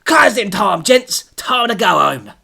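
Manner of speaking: loud London landlord calling time; broad London. Acted. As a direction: call closing time like a Cockney barman. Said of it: "in his broad London accent".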